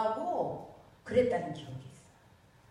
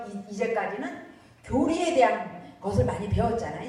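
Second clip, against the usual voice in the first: ordinary delivery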